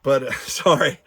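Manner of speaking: breathless, panting between words; out of breath. Real, not acted. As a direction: talk while catching your breath. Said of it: "I'm all out of breath".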